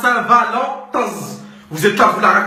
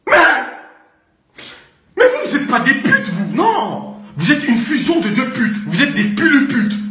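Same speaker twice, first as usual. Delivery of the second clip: mock furious insult; 4 semitones higher than usual. Insulting girls, shouting.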